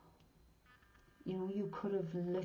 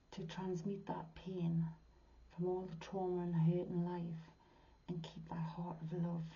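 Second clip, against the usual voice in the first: tender whisper; 4 dB quieter than usual. Real, not acted. Speaking to hurt viewers, a tender whisper. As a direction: whisper it with care.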